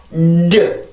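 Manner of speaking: 르 voiced fully on a fresh push of air; fresh-air release. Shown as a demonstration. Teacher showing what to avoid, fully pushed 르. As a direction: push new air up into a drawn 르. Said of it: "공기를 새롭게 뽑아 올려서".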